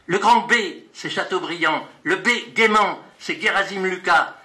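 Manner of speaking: rhythmic recital, names punched out; poetry reading. Acted. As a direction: read the list poem with a beat. Poet reads his poem aloud. (lecture de poème rythmée)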